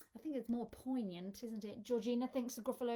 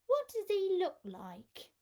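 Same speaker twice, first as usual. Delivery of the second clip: much higher, louder eager question; excited child; 9 semitones higher, 6 dB louder than usual. Acted. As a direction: bounce with curiosity, like a kid. Child eagerly asks her dad.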